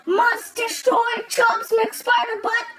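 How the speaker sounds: slow, chanted robot monotone. Acted. Robo-Chubbs robot chants its order to destroy, slow monotone. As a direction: chant it like a single-minded machine.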